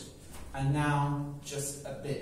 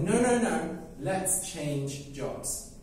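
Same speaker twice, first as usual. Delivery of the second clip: bird protesting. Acted. Bird refuses in the story.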